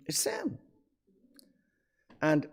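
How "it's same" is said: breathy whisper, pitch up high; whispered aside. Real, not acted. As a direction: drop it to a secret whisper.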